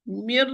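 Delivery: "Mir" lingering on the final r; held first ra. Shown as a demonstration. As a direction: wait on the r of "Mir". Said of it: "Wait for the first ra".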